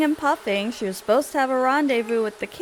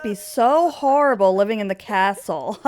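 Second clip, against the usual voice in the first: mocking tease. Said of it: "So he's teasing her, um, kind of mocking her".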